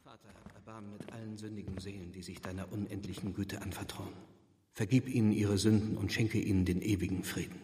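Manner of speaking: soft, murmured prayer to himself; a lone man's whispered-soft plea for mercy; hushed prayer. Acted. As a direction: pray quietly, almost under the breath. Reverend praying alone in church.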